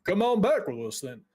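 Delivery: a hint of a folksy mage warming up; lightly voiced guild dwarf, intrigued. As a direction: invite visitors in, lightly in character.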